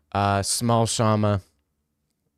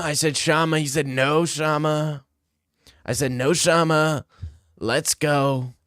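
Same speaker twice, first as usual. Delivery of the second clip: lightly done Trump rally voice; Trump impression. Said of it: "That's my Trump impression".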